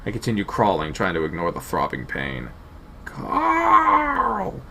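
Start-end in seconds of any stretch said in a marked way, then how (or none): 3.0-4.6 put-on high, shrill, childlike call; shrill shout. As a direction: call out weak and pathetic. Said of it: "Shouting now, my voice sounds foreign to me. Shrill, childlike, pathetic".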